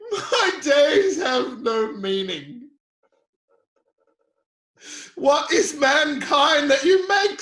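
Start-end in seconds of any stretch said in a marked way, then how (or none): 0.1-2.7 tearful lament. Acted. Job crying out to God.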